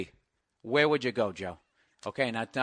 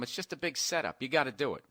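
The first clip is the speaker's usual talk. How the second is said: normal talking voice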